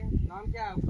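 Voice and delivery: high call to the group. Real, not acted. Instructor calling to the kids for their names, loudly. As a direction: ask loudly across the field.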